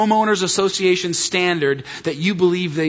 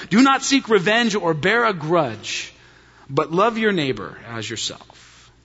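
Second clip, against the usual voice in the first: solemn scripture reading. Acted. Scripture quoted again.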